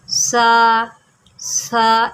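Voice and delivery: سا said softly, no hiss; سا with a soft lisped th, never an s; soft tha sound. Shown as a demonstration. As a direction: say سا gently without a whistle. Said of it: "اس کو پڑھیں گے نرمی سے".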